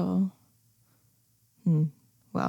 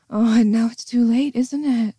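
louder, higher gloating taunt; 4 semitones higher, 5 dB louder than usual. Acted. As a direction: rub in that it's too late. Gloating that it's too late.

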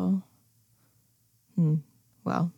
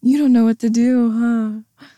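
taunting; 4 semitones higher, 8 dB louder than usual. Acted. Taunting him after the reveal.

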